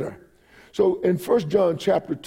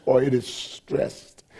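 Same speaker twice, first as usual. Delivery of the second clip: "stressed" slow and drawn out; slow, weighted finish on "stressed"; emphatic; 2 semitones lower, 3 dB quieter, slower than usual. Shown as a demonstration. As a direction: stretch out "stressed" deliberately. Preacher explaining the word stressed.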